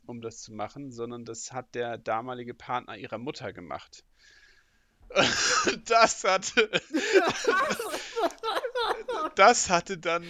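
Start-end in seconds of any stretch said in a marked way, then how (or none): 5.1-10.2 high, loud words broken by real laughter; laughing while talking. Real, not acted. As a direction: try to speak but keep cracking up. Laughs mid-story, can't continue.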